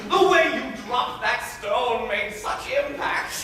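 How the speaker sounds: pompous old guardian lecturing in verse, lightly voiced; a self-satisfied tutor laying down the law; Arnulf. Arnulf lecturing his young ward on suitors, smug and preachy. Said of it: "I was to play the character of".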